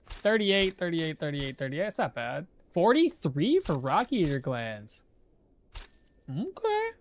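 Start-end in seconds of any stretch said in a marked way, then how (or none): 6.3-6.9 put-on high, lilting Irish accent; playful Irish voice reacting to a price; a cheerful stab at an Irish accent. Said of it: "That was Irish again".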